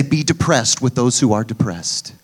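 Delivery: "Be depressed with those who are depressed" said as a scornful fake verse, "who" stressed; mock misquote. Shown as a demonstration. Preacher mocking a false verse, "who" stressed, scornful. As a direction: sneer through the made-up verse. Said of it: "It doesn't say".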